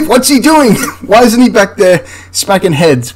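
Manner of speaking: high-pitched question broken by laughter; incredulous laughing. Real, not acted. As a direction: ask it through real, baffled laughter. Laughs at sergeant's odd position in film.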